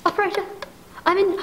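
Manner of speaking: urgent, fast, panicky pleading; begging the operator in a rush; desperate plea. Acted. Invalid begging the operator for help, panicked.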